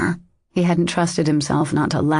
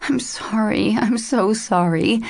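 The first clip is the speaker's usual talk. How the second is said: broken whisper; 5 semitones higher, slower than usual. A narrator's reading. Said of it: "she whispered brokenly".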